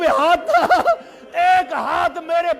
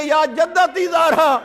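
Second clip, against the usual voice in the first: slow calling; 2 semitones higher, 3 dB louder, slower than usual. Retold or imitated. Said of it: "کہتی ہے".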